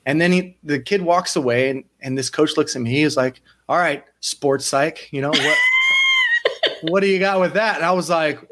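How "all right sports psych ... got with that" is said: mocking challenge. Coach challenges with laugh.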